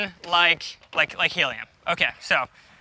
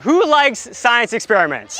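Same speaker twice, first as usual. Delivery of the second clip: calling out. Real, not acted. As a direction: shout the question to the audience. Host calling out to crowd.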